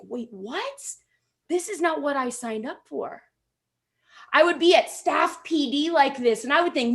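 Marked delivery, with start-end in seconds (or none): 0.0-3.2 hushed, puzzled inner voice; soft bewildered thought; quiet dismay. Retold or imitated. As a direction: mutter it to yourself in disbelief.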